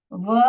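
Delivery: व said on its own as a separate syllable; teacher sounding out व alone; split syllable. Shown as a demonstration. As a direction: isolate व for the class. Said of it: "तो कैसे split करोगे आप?".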